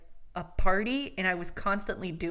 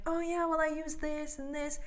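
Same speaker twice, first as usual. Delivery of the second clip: eloquent friend voice; 8 semitones higher, 6 dB quieter than usual. Retold or imitated. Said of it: "Ash is just being very eloquent".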